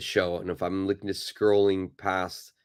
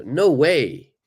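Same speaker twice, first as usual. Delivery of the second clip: higher, louder exclamation of disbelief; disbelieving reaction; 6 semitones higher, 5 dB louder than usual. Shown as a demonstration. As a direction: react as if you can't believe it. Demonstrates natural reaction of disbelief.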